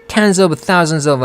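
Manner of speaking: "tens of thousands of" run together; linked words. Shown as a demonstration. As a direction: attach each "of" to the word before it. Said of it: "같이 붙여가지고".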